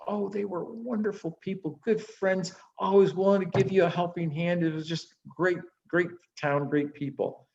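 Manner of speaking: cheerful traveler. Acted. Couple praises old town.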